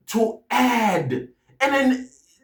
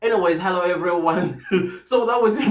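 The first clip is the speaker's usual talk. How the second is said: laughing. Real, not acted. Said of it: "I cannot stop laughing".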